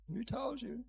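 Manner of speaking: gentle, mildly lilting question; tender, unhurried prompt. Acted. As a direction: ask it kindly, leaving space. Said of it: "But it's so gentle".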